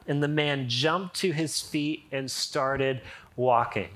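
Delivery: animated reading of the passage aloud; scripture reading. Acted. Pastor reading Acts aloud to his church, animated and bright. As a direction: read the Bible story to the congregation with energy.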